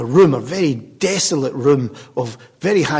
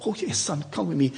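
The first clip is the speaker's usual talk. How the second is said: kind nurse; 2 semitones higher, 8 dB quieter than usual. Retold or imitated. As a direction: coax him kindly like a wee nurse. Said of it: "nurse is a nice, kind wee buddy".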